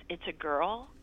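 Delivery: put-on stunned, rising "It's a girl?"; dad stunned in the operating room, asking "It's a girl?" with a rise; shocked question. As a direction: ask "It's a girl?" in disbelief, pitch lifting on "girl". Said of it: "he's shocked".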